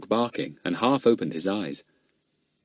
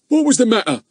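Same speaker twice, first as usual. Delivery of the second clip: put-on high, louder hoarse old man voice; 6 dB louder, faster than usual. Old man asking Ern about the noise, hoarse. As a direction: croak it like a shabby old man. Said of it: "he said in his hoarse voice".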